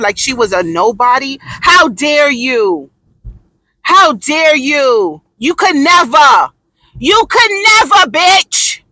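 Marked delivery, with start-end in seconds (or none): 1.4-8.8 indignant scolding. Real, not acted. Scolding Taylor.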